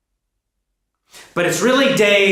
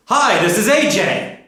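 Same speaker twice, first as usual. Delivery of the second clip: imitated model sentence; 5 semitones higher, 5 dB louder than usual. Shown as a demonstration. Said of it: "Then you say".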